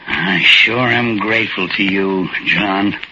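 put-on a shy old-timer, grateful and unsure; timid little old man.

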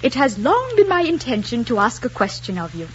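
lightly voiced formal suitor; courtly, rehearsed declaration; suitor's proposal. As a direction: recite a proper proposal with a lift on "long". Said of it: "he should say".

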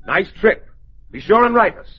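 loud, mocking farewell; pointedly cheery good riddance; sarcastic send-off. Painter mockingly sees the husband off.

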